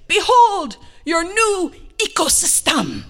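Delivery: high, loud, slow unveiling; grand proclamation. Retold or imitated. Husband presents possum its home, booming proclamation. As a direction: proclaim it like a great revelation.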